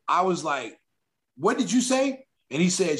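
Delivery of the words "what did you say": high, incredulous mock threat; mock threatening challenge. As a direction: dare him to repeat it. Retold challenge after insult.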